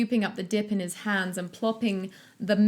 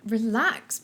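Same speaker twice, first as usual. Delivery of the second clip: croaking. Acted. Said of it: "Paul croaked".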